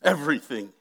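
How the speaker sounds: ordinary talk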